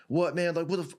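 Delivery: high-pitched mock indignation; retold freak-out. Coach retells his flustered opponent snapping back, mock freak-out. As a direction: imitate a man starting to lose it. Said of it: "he starts freaking out".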